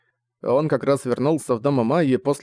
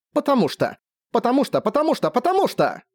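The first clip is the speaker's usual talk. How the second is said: each one pitched much higher, hammered out; furious repeated shout; 11 semitones higher than usual. A narrator's reading. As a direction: pound it like fists on a wall. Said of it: "врезала кулаком в стену".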